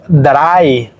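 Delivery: "Drei" with E-I sounded as A-I, drawn out; correct pronunciation. Shown as a demonstration. Teacher gives learners the correct way to say three, correct pronunciation. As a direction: say "Drei" slowly, as if spelled D R A I. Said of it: "como si fuera D R A I".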